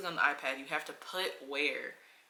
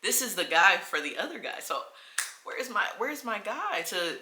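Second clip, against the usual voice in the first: indignant; 5 semitones higher, 6 dB louder than usual. Retold or imitated. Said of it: "So I'm like".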